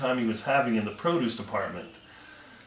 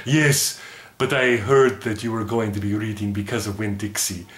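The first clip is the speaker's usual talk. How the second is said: puppet voice. Acted. Puppet Math Mud answers teacher.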